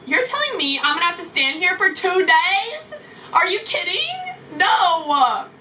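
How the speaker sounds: a mock outraged whine; outraged disbelief. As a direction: protest in disbelief. Outraged at standing two days.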